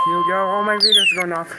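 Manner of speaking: excited. Real, not acted. Alarm tone about to sound.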